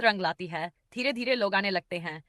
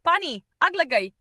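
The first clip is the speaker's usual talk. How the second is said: high, loud cry of burning mouth; shout; 9 semitones higher, 7 dB louder than usual. A narrator's reading. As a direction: yell for water, mouth on fire. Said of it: "Pinky चिल्लाई". (ऊँची, ज़ोरदार चीख)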